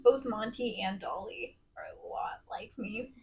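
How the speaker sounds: unvoiced whisper. Real, not acted. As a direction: whisper it under your breath. Whispers with gnat nearby.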